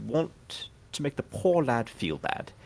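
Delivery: put-on reading a child's story in a light British accent; a hint of British, read it aloud to the table; lightly British storybook reading. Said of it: "before I read this in a British accent".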